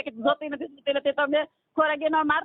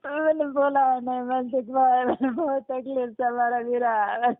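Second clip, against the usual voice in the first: crying; 2 semitones lower, slower than usual. Real, not acted. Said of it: "છાના રહી જાઓ".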